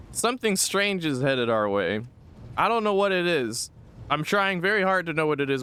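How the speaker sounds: high, confused dreamy voice; dazed character voice. Acted. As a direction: speak like someone tripping on visions. Plays Adira tripping.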